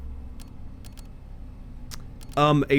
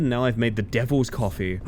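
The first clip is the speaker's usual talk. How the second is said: ordinary delivery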